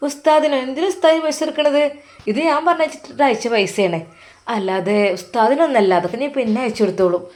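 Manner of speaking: a daughter-in-law scolding her mother-in-law over money; indignant outburst. Acted. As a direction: snap back at the old mother in disbelief. Daughter-in-law refuses mother's request.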